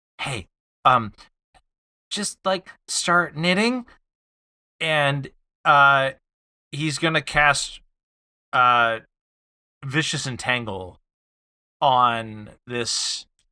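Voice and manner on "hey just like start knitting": whispered aside, higher pitch. Voicing Krampus whispering a tip into Joseph's ear: whispering. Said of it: "lean down and whisper in".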